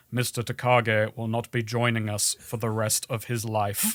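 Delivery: low, soft, smug villain announcement; a touch of Alan Rickman villain; hammy Hans Gruber. Retold or imitated. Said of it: "I love how hammy it is".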